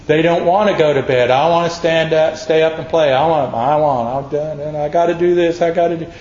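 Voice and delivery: mock the kid who won't go to bed; lightly voiced fussy child; whiny kid. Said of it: "to hear their parents say".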